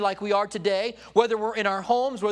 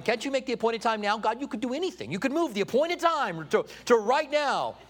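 higher-pitched, mock-impatient plea; mildly hammed-up impatient begging; impatient pleading; 3 semitones higher than usual. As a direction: plead lightly, as if bargaining with God. Speaker acts out pleading with God.

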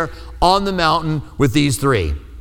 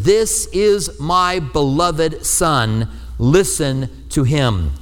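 voice of God; much slower than usual. Acted. Voice from the cloud speaking.

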